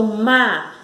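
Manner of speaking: "mágico" split by pauses, má emphasised; stressed syllable demo. Shown as a demonstration. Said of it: "ela sobe".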